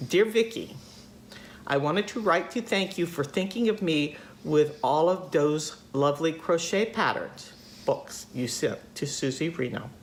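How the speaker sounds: light attempt at a Minnesota accent; roughly imitated Minnesotan letter voice; Mavis. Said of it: "I can't do her accent, but, you know, she's from Minnesota".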